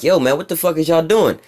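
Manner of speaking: lightly voiced Maduro scolding America to stay home; Maduro imitation. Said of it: "Nicolas Maduro in Venezuela, like".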